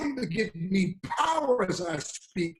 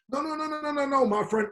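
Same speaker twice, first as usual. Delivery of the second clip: emphatic no; 7 semitones higher than usual. Acted. Preacher rejects negative talk.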